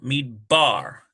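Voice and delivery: Mid Bar with the weight on "Bar"; stress on BAR. Shown as a demonstration. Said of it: "it's probably on this B sound".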